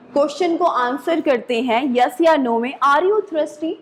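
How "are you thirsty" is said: "Are you thirsty" lifting toward THIRSTY; rising question intonation. Shown as a demonstration. Teacher modelling a yes-no question, rising intonation. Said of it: "the tone rise".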